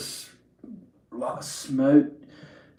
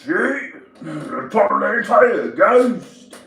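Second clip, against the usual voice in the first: mock amazement; 6 semitones higher, much slower than usual. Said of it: "and it's like".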